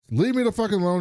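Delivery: high, loud mock yell at the door; retold yell. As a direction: snap it like a scared man yelling through the door. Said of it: "yells at him".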